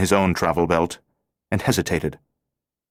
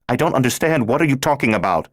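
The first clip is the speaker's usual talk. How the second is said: bewildered alarm; 7 semitones higher than usual. Acted. Laura bewildered, frightened.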